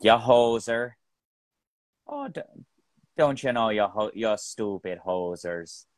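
demonstrated mock Canadian accent; lightly put-on Canadian, eh. Shown as a demonstration. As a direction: lay on a hoser-style Canadian accent. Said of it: "You wanna be doing".

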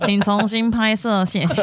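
slow, stiff system announcement; slow automated voice. Pretend. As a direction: read it like a machine prompt. Mock app voice.

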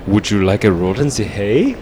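put-on light German accent, rising at the end; Inga's German accent. Fan quoting Inga's dated joke, in a light German accent. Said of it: "the sexual jokes with Inga".

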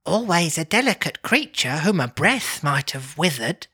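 a hint of a gentle spirit; ghost voice. Ghost speaks in reading.

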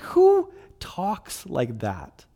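slow, drawn-out mock disbelief; incredulous. Dad reacting to his kids' lavish wishes, incredulous. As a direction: stretch it out, baffled by the kids.

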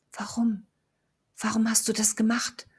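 breathless hoarse whisper. Acted. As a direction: whisper it hoarsely, barely voiced. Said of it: "flüsterte sie heiser".

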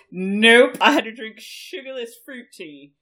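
loud, indignant retelling; loud outraged. Real, not acted. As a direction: shout the outrage. Outraged tea story, loud.

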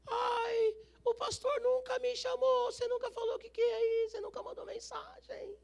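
high, crying mock whine; whiny churchgoer. Whiny complaint mimicked in sermon. (imitando um fiel chorão, voz aguda e chorosa)

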